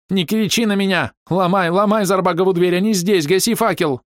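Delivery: high squeaky panicked baron's voice. Acted. Cowardly baron snapping at his servant in a dark cellar, high squeaky panic. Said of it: "чей песклявый голос".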